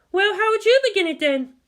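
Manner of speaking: high, loud, pointed challenge; challenging. Acted. She challenges Makoto to start the scripture himself, pointed and loud. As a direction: throw the question at him as a dare. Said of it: "she challenged".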